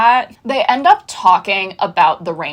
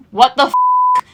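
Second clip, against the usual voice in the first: shocked squeak; 3 dB louder than usual. Retold or imitated. Quentin's shocked retort.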